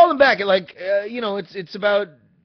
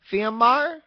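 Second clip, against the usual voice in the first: put-on higher, louder Hispanic accent, rising at the end; her Hispanic-accented voice; 7 semitones higher, 4 dB louder than usual. Imitating the phone woman naming the driver, Hispanic accent. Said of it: "say it in her voice".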